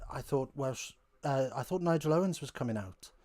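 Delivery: a light, half-hearted Welsh lilt on the quote; bad Welsh lilt. Retelling a talk show joke in a crap Welsh accent. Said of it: "crap lilt of an accent".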